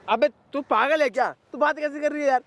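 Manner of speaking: angry yelling. Acted. Partner yells at Neha, who asks why he's shouting. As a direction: pitch up, mock-heated scolding. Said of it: "तू चिल्ला क्यों रहा है?".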